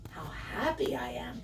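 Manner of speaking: hushed, half-whispered inner voice; happy thought. Acted. Piglet thinking happily in the water, hushed. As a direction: think it aloud softly, contentedly. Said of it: "thought Daggy".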